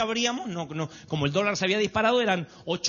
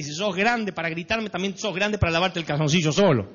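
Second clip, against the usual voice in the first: parental retort; 4 dB louder than usual. Retold or imitated. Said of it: "tendría ganas de decirle".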